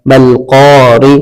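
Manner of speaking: slow, drawn-out syllable blending; careful teacher's slow spelling-out. Shown as a demonstration. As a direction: join the syllables slowly for learners. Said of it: "এটা ভালো করে খেয়াল করবেন".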